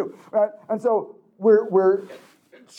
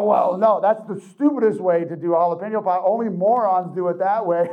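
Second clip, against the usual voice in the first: mock heated debate; 4 dB louder than usual. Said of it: "heated debate".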